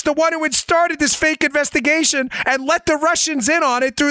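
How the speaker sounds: high-pitched, scornful tirade; exasperated rant. Real, not acted. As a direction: berate them as utter fools. Ranting at the fooled agency.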